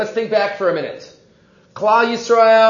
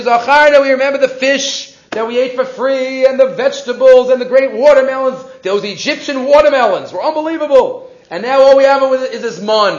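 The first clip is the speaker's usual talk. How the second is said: whiny retelling of the Israelites' gripe, raised and louder; mock complaining; 3 semitones higher, 4 dB louder than usual. Teacher voicing the Israelites griping to Moshe about the manna, mock whining. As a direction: kvetch about the food like a spoiled crowd.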